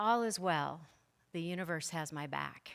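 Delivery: ordinary talk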